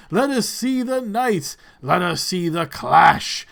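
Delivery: slow, grand tournament oratory; proclaiming regent. Acted. Regent opening the tournament for the crowd, slow grand proclamation. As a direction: declaim to the stands, stretching each phrase to a rousing finish.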